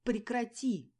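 sharp high shout; loud angry cry. A narrator's reading. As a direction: yell at her to stop. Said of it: "крикнула она".

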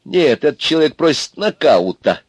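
high-pitched exclamation; exclaiming. A narrator's reading. Курносый joins the attack on Аристарх, exclaiming. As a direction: call it out over the group. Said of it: "тоже воскликнул Курносый".

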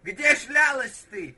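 slow loud repeat to be heard. Shown as a demonstration. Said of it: "Кто?".

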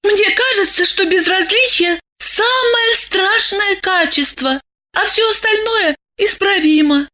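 put-on high, earnest young woman; high girl explaining her belief. A narrator's reading. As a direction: say it with conviction up high. Masha states her belief.

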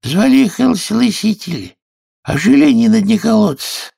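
high, squeaky storyteller mouse; a tiny creature spinning a tale; sleepy Dormouse voice. Acted. Dormouse telling Alice her tale, squeaky and high.

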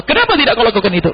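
a touch of a scolding master; mild mock rebuke. Shown as a demonstration. Preacher voicing the rebuke the Prophet never gave.

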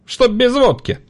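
high, loud, delighted trader's voice; a raucous old trader laughing it off; cackling market woman. A narrator's reading. Market woman delighted to see the boy, high and loud.

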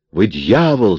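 mock scream, half-hearted yell. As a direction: fling it at him as an accusation. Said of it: "завопила она".

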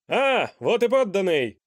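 loud, high royal exclamation; the king greets his new subject grandly; exclaiming king. A narrator's reading. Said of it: "воскликнул король".

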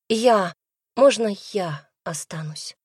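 ordinary delivery, nothing marked

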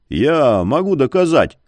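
emphatic assertion; assertive claim. A narrator's reading. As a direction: declare it firmly. Insisting he can prove it.

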